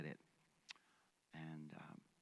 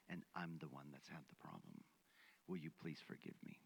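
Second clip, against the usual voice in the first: holding back tears, almost whispered at first; real emotion. Real, not acted. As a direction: voice thick with real feeling. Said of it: "I'm gonna get emotional here".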